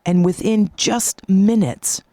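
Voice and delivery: slow, drawn-out storytelling; slow, wondrous climax with long pauses; dramatic story narration. Acted. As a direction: draw out each phrase to unveil the transformation.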